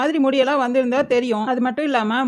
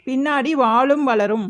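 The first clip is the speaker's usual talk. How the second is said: slow reading; slower than usual. Acted. Reading the cursed game note.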